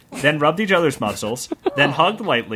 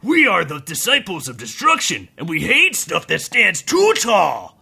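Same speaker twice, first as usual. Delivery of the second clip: orc bandit shout. Acted. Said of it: "shouted the orc bandit".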